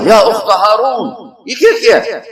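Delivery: high, laughing scornful jab; mocking taunt. Townsfolk taunting Maryam, high mocking scorn. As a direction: scoff at her as the crowd would. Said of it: "تین طرح سے طنز کیا ان کو".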